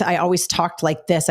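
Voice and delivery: slightly deepened, serious classroom voice; deepened teacher voice. Shown as a demonstration. Former teacher showing her classroom voice, slightly deepened. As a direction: drop the voice a little, firm teacher. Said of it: "I deepened my voice".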